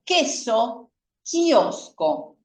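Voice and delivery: "queso" sin la u, keso; u muda. Shown as a demonstration. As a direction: decir "queso" con k clara. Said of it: "parece una U muda". (u muda en "queso")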